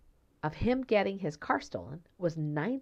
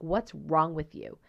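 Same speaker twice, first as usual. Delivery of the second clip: accusing; 4 dB louder than usual. Retold or imitated. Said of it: "That's almost how it sounded".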